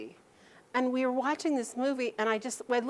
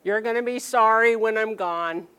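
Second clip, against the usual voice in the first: grandparent guilt trip; 4 dB louder than usual. Retold or imitated. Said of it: "maybe you have some grandparents now are going".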